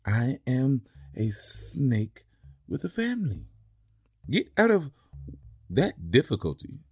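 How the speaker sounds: slow, strained pleading snake; lightly voiced snake groaning for help. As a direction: beg slowly from under the rock. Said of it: "The snake groaned".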